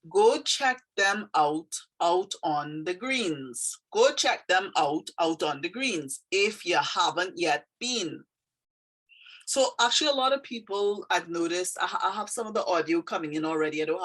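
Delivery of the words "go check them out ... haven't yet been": poem reading. Acted. Reads dialect poem aloud.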